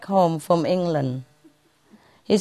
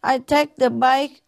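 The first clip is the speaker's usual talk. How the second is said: put-on high childish voice, pitched way up, with a laugh in it; little girl Lisa; 9 semitones higher than usual. Lisa answers her mother in a high, laughing kid voice. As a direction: play the clever kid, high and giggly. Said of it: "So Lisa said".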